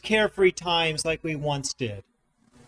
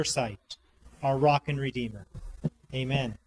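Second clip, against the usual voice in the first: prayer; 4 semitones lower than usual. Real, not acted. Leads a prayer.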